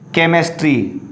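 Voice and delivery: CHEMISTRY begun with a K sound; hard K for CH. Shown as a demonstration. Teacher models the word for students, CHEMISTRY with hard K. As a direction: say CHEMISTRY as "kemistry". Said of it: "it's a chemistry".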